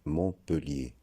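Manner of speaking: "Montpellier" with schwa, mon-pe-lié; slow model of "Montpellier" as mon-pe-lié; most common pronunciation. Shown as a demonstration. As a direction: say "Montpellier" slowly, e as in le. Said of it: "mais la plus courante".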